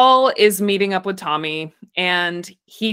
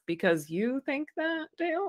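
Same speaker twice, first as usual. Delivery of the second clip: harsh; 6 semitones higher, 11 dB quieter than usual. Retold or imitated. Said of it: "It came out so harsh".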